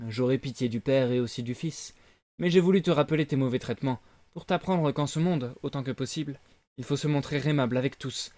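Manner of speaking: a gentle but stern lesson; wise cricket. Acted. Cricket lectures Pinocchio.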